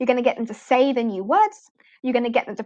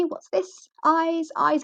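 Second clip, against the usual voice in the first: bright, higher teacher prompt; teacher demo voice; 5 semitones higher, much slower than usual. Shown as a demonstration. Teacher pointing at her eyes for a child, slow and clear. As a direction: model the question and answer for a young learner. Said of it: "mine pointing at different parts of my body".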